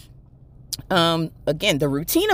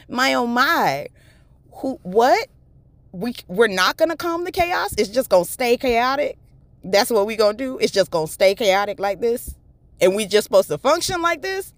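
mock outrage; 5 semitones higher than usual. Mock indignant questions.

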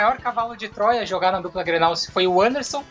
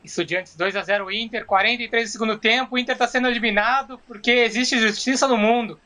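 dejected commentary; slower than usual. Acted. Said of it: "no mesmo entusiasmo que ele deve ter ficado".

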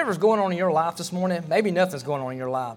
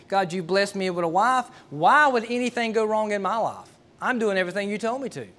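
retold protest to God, pitched higher; mildly entitled, bewildered complaint in prayer; indignant plea; 5 semitones higher than usual. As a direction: plead your case as if owed an answer. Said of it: "I was almost arrogant with God".

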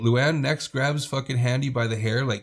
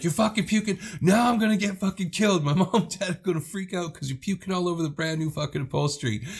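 much higher panicky retold rant; mock freaking out; 7 semitones higher than usual. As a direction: shriek it like a teen dreading her parents. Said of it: "she starts freaking out".

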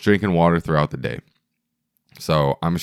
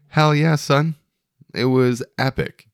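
excited; 8 semitones higher than usual. Real, not acted. Hyped about the party.

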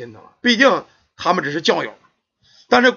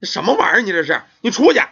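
angry aunt; 4 semitones higher, faster than usual. Acted. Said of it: "他姑给气的说".

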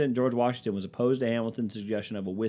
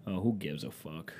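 muttered aside; 3 semitones lower, 5 dB quieter than usual. Real, not acted. Trails off reading history, gives up.

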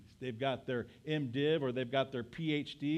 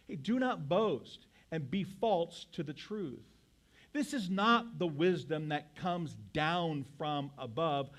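scripture reading. Acted. Pastor reading James to the standing congregation, measured and solemn. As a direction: read the verses out to the church.

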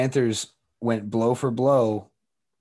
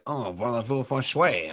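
barely-there bad French accent; a clumsy hint of French. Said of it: "I'm trying to do a French accent".

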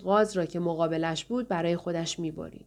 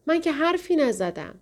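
sobbing; 8 semitones higher than usual. A narrator's reading. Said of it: "جوانک با حق حق گفت".

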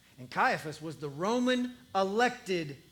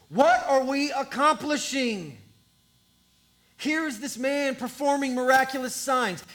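anxious, raised Pharisee voice; worried council member; 3 semitones higher, 4 dB louder than usual. Acted. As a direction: plead with the council, alarmed. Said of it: "And one says".

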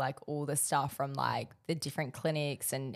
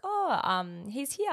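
mock naive self; 9 semitones higher, slower than usual. Retelling own reply to postman.

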